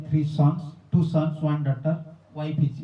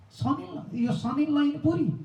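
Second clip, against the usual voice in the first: excited announcement; 8 semitones higher than usual. Retold or imitated. Visitors announcing found son-in-law.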